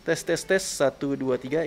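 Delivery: tes suara lewat mikrofon depan; tes mic depan. Shown as a demonstration. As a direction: hitung pelan-pelan untuk uji mic depan. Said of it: "menggunakan mic depannya". (uji mikrofon depan)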